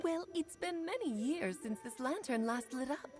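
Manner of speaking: put-on coy, sugary old friend; simpering. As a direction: play it sweetly coy. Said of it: "she sounds so coy all of a sudden".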